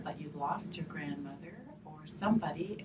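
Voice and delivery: soft unvoiced whisper; whispered aside. Teacher comforting grieving children, whispered. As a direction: hush it like a secret. Talking gently about loss.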